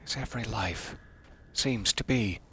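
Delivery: gloomy narrator. Pretend. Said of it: "narrated by Peter".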